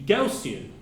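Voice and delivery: Gaussian said in three syllables, GOW-see-an. Retold or imitated. Commenters correcting the professor, three-syllable Gaussian. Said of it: "It should be three syllables".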